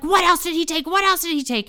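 high-pitched panicked mom imitation; mock interrogation in mom's high voice; frantic mother. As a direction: demand it like an alarmed mother. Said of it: "she's like".

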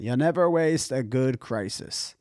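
lightly imitated European accent. Host quoting a summit speaker, European accent. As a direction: quote it with a hint of a European accent. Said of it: "like, European accent".

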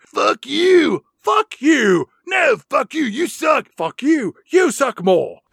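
shouted high curses; yelling. Retold or imitated. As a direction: scream it back at him. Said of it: "just yelling at each other".

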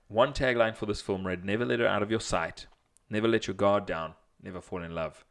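a lighter second trailer read; movie trailer voice. Acted. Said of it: "read the question in your movie, movie guy voice".

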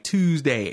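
"Tuesday" with a fronted Baltimore oo; Baltimore "oo" sound. Retold or imitated. Quoting barbershop talk, "Tuesday" with Baltimore oo. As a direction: say "Tuesday" as Baltimore "Tew-sday". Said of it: "and every ooh after that".

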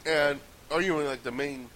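talking while chewing chips; words round a mouthful of chips; munching chips. Real, not acted. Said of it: "I'm kinda munching on chips here".

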